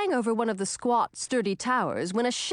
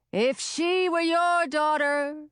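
put-on young witch voice; 6 semitones higher, slower than usual. A narrator's reading.

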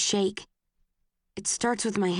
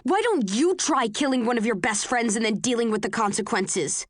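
yell; 3 semitones higher than usual. Acted. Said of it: "Tears fill my eyes and I yell".

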